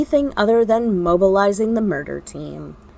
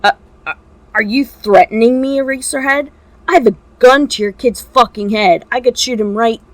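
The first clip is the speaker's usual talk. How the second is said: stammering fear; 3 semitones higher, 4 dB louder than usual. Acted. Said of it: "the walking corpse stammered".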